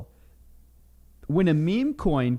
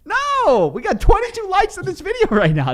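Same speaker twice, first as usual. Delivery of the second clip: laughing; 13 semitones higher, 5 dB louder than usual. Real, not acted. Laughing at low likes.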